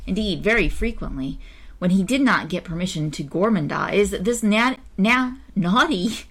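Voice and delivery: measured, expressive storybook reading; story narration. A narrator's reading. Reader telling an old-fashioned tale to listeners, story narration. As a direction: read it out like a children's tale. Reads a children's story aloud.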